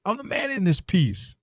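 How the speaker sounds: a movie cop's threats, recited with relish; reciting a movie villain. Retold or imitated. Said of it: "So it's like".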